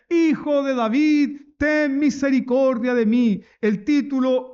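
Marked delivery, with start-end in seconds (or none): 0.1-3.4 mildly raised pleading call; retold insistent shout. Blind man refuses to be silenced, shouting. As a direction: imitate a beggar who keeps calling out. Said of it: "volvió a gritar más fuerte".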